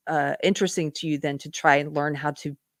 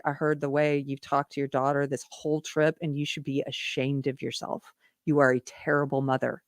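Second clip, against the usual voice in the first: softer, steady rebuke without anger; calm but firm; 3 semitones lower, 5 dB quieter than usual. Retold or imitated. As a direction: say it with judgment, not emotion. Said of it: "I didn't lose my temper".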